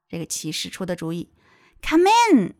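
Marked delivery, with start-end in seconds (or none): 1.8-2.5 high storybook call; king crying out. Acted. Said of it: "Cried the king".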